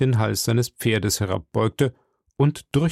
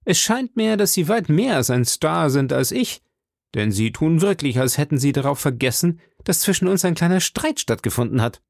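higher, heated challenge; calling out; 5 semitones higher than usual. Acted. D'Artagnan calls out to the Englishman, higher heated challenge. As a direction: fling the words at him.

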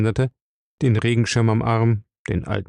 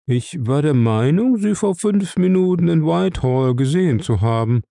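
lilting, higher, sugary tone; fluting sweet voice; 5 semitones higher than usual. A narrator's reading. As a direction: coo it sweetly like a flute. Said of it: "flötete Elk".

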